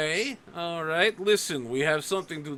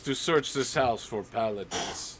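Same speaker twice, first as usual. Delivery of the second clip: stern guard; 3 dB louder than usual. Acted. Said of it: "He's like".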